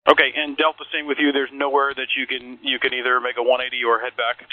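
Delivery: controller over a tinny radio; ground control radio call; air traffic control radio. Real, not acted.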